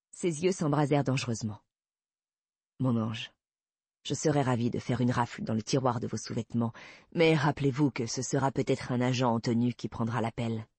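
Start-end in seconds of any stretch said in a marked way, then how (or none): 2.8-10.7 lowered voice for a policeman answering a tease; a hint of a man coolly countering flirtation; understated low male character voice; lightly voiced male investigator, wry.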